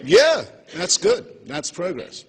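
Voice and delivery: high, slow patronizing approval; condescending God. Retold or imitated. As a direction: pat him on the head slowly.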